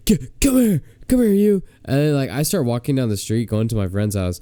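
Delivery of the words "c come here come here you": high-pitched mock drunken summons; drunk mom. Drunk mom summoning daughter's date, high mock call. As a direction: call out as a hammed-up tipsy mother.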